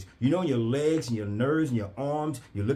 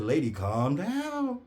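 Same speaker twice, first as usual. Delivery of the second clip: calm down; slower than usual. Retold or imitated. Calming the frantic nurse.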